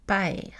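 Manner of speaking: paer with the vowel gliding from a to e; père said as paer, Québec style; paer, an open sliding è; diphthonged vowel. Shown as a demonstration. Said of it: "père prononcé".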